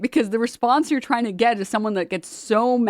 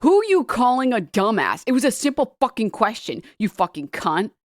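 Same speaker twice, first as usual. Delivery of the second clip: mock outrage, starting louder and higher; retold all-caps outrage; 4 semitones higher, 4 dB louder than usual. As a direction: read an angry all-caps reply, easing off. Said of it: "in all caps saying".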